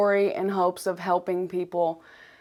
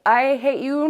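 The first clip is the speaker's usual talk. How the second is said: raised, louder mock snap of self-hate; 6 semitones higher, 6 dB louder than usual. To herself, the inner critic snapping in mock self-hate. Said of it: "Be like".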